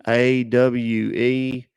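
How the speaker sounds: slow, letter by letter; spelled out unsure; dictating. Shown as a demonstration. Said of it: "read it back to me".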